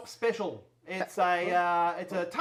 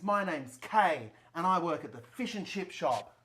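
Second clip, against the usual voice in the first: Kay character voice. Acted. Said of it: "Is in this".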